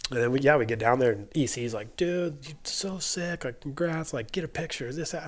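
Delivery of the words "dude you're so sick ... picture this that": high-pitched imitated gushing. Teammate congratulating him at the bottom, imitated enthusiasm. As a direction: draw out the first words in admiration.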